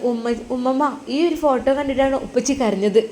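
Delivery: put-on a small girl worried for her dad; little girl. Daughter speaks.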